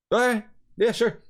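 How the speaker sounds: high, quick mock agreement; retold girlfriend happily agreeing; eager yes. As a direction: jump at the idea. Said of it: "And she's like".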